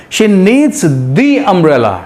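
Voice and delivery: "the" clearly stressed, very slow. Shown as a demonstration. Teacher stressing "the" to contrast articles for students. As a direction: lean on "the" in a slow read. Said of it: "वहीं दूसरी तरफ हम देखते हैं".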